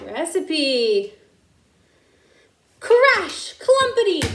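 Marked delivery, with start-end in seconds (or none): 2.9-4.2 high, loud sound words; noisy crash. A narrator's reading. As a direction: bang out the crash. Noise of chase.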